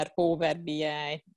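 Power B I with a heavy English accent, slow; anglicized Power B I, drawn out; bad English accent. Shown as a demonstration. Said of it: "milyen szép rossz angol akcentussal mondtam".

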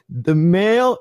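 high, nervous start; nervous kid. Retold or imitated. Jimmy starting the paragraph aloud, high and nervous. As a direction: hesitate like a panicking kid. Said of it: "he's like".

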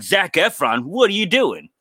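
high-pitched retold disbelief; mock alarmed question. Dreamer to intruder holding his dog, mock alarm.

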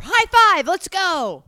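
high, loud team cheer; hammed-up gung-ho whoop; pretend excitement. Imagined happy teamwork while moving.

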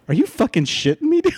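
high incredulous shout breaking into laughter; laughing disbelief. Retold or imitated. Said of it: "He couldn't believe it".

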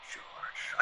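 breathy startled whisper. Acted. Writer rehearsing a scene, whispered aside. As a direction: gasp the name under your breath.

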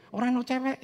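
high, loud exclamation: Ora ono cewek; exclaimed. Real, not acted. Repeats the line, far louder.

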